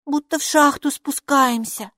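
high small voice; high-pitched little creature; little character remarking. A narrator's reading. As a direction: observe it in a high pipe. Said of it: "заметила Майки".

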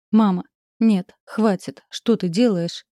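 громко, с надрывом, протяжное «Нет»; останови мать, срываясь на крик; отчаянный крик. Acted. (дочь кричит матери, чтобы та прекратила: громко, с надрывом)

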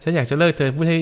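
mock the disappointed client grumbling at the monk; grumbling laywoman. Monk imitating a client who resents his advice, mildly peeved. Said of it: "พอพูดเสร็จปุ๊บ".

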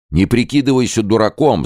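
loud, high furious yell. A narrator's reading. Hurh threatens the trader with a knife, yelling. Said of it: "заорал Хурх".

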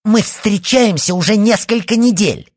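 high, loud, indignant outburst; furious schoolgirl yelling at her rival to back off; indignant shout. A narrator's reading. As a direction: fling it back at her rival, full volume. Rival girl shouting in a quarrel.

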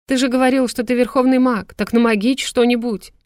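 loud, high pleading through tears; tearful shouting. A narrator's reading. Polya cries out to the dying medic, tearful and loud. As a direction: beg him desperately to do magic. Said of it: "Вытирая слёзы, кричала Поля".

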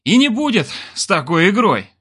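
high, cross interjection; angry. A narrator's reading. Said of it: "сердито добавил Олег".

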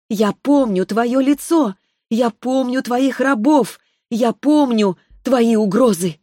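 put-on a child spirit passing sentence, unhurried; sweet young voice. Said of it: "Её юный сладкий голос".

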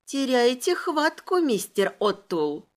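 slow, drawn-out mock pity; mock sympathy. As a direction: drawl it with fake sympathy. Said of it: "сочувствием протянула я".

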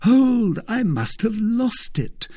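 very high mock alarm, loud on the first word; malicious teasing. A narrator's reading. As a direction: pretend the loss to torment him. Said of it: "said the young man maliciously".

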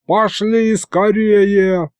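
high, drawn-out urging call; slow high holler; crowd calling out. Acted. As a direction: call everyone along, stretching the words. Crowd rushing to the tables.

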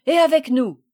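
high, loud, eager reply; answering together. A narrator's reading. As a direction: call out as if two boys at once. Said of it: "répondirent ensemble". (réponse enjouée et forte)

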